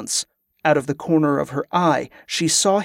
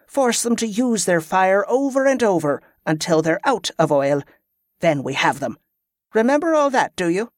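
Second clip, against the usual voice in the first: hint of a tough leader explaining tactics; commander briefing; 3 semitones higher than usual. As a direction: drill the plan into the captive.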